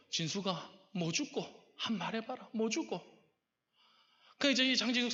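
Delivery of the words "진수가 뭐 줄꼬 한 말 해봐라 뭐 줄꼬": God imitated in Gyeongsang Korean, pitch lifting; Gyeongsang dialect. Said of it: "경상도 말로 말씀하시는". (경상도 억양을 살려 묻는 말투)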